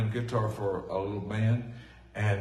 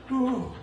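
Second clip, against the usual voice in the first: mock whew; 13 semitones higher than usual. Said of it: "I was sweating like".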